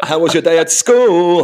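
loud, high MC hype on small talk; everyday question blared like a garage MC. Pretend. Dad asking his kids about school, garage MC voice. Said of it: "I speak like that garage voice".

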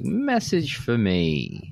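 slow, drawn-out robotic ringtone; Moss ringtone voice. Retold or imitated. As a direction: intone it slowly like a phone alert. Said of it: "Moss has his ringtone and it's like".

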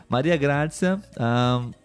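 ordinary talk

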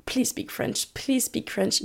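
whispered, pleading under her breath; silently begging mom to switch to French; inner plea whisper. Retold or imitated. Whispering to herself, begging her mother to speak French. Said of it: "inside of me, I was like".

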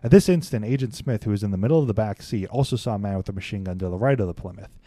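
measured read-aloud of a case report; steady documentary-style narration. A narrator's reading. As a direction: read it out like an official account.

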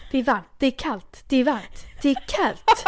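sing-song back-and-forth squabble, building; escalating parody of an argument, rising at the end; mock bickering. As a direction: imitate two people contradicting each other. Mimicking two bickering colleagues.

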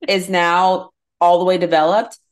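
put-on lamenting TikTok girl. Retelling a TikTok about the frontal cortex, high, slow mock despair.

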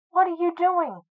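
mock the question as if amused; laughed. A narrator's reading. Senior thinks Blake mad, half-laughed question. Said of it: "laughed Lance Senior".

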